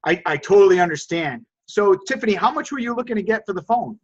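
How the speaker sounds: calm, empathetic reply; mild reassuring negotiator voice; understanding. Shown as a demonstration. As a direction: defuse her with a soothing, understanding tone. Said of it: "watch exactly what happened right there".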